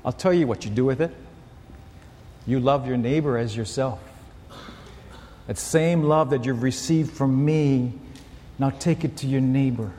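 low-pitched, measured voice of God; the Lord. Retold or imitated. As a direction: speak low and unhurried, with pauses between phrases. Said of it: "the Lord is saying to us".

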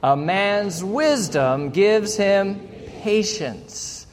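slow, deliberate unison scripture reading; reading aloud together. Shown as a demonstration. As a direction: read it out slowly, word by word. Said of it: "Ready, go".

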